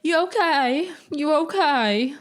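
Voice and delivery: high, drawn-out St Helens greeting; British accent, St Helens. Retold or imitated. Fan imitating ice cream van workers' greeting, British accent. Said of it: "they greet each other with, like".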